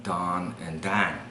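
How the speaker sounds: Chicago "don and dan", fronted vowels; Chicago accent, Don drifting toward "Dan". Shown as a demonstration. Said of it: "when you go to Chicago".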